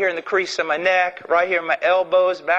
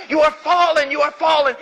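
God screaming out; 9 semitones higher than usual. Acted. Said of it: "the mercy of God screaming out".

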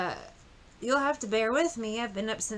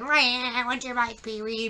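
mock crying whine; 3 dB louder than usual. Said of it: "this fucker laying on the ground".

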